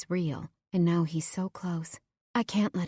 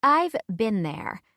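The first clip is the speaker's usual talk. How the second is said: put-on sympathetic girlfriend; 5 semitones higher, slower than usual. Heather sympathizes.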